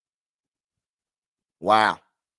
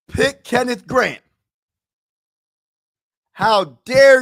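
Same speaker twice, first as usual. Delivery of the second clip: mock outrage; slower than usual. Real, not acted. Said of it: "I'm so irritated right now".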